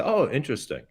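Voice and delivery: lukewarm polite "Oh, interesting"; polite but unimpressed. Retold or imitated. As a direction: say "interesting" politely, hiding disappointment. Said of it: "and say".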